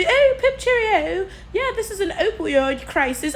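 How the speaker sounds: hammed-up posh English twit; posh British caricature. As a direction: lampoon a chirpy upper-class Brit. Same posh mock voice.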